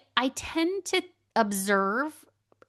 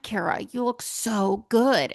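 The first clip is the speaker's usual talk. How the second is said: whispered compliment; 3 dB louder, slower than usual. Retold or imitated. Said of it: "people will say".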